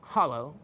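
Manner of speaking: "hollow" with a clear final oh; "hollow" pronounced as spelt, not "holler"; standard "hollow". Shown as a demonstration. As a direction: say "hollow" in full, ending on a round oh. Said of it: "being hollow".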